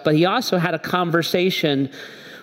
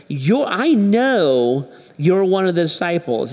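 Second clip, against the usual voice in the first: put-on accusing little girl. Little girl accuses Peter, acted.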